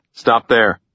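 mild narrated shout. A narrator's reading. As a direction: call out a firm order to halt, held in. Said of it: "Tucker shouted".

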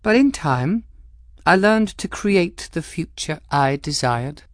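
cool, arch noblewoman with a sly edge; Cavendish voice. Acted. Cavendish needling the captain, arch and cool. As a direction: speak as the poised Madame Cavendish, lightly mocking.

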